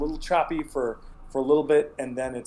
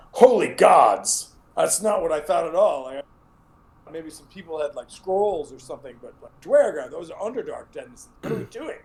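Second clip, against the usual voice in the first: startled sheriff; 4 semitones higher, 4 dB louder than usual. Acted. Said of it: "she's basically like".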